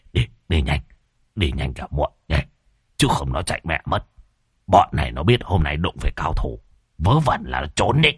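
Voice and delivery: excited. A narrator's reading. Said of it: "hưng phấn chồm dậy".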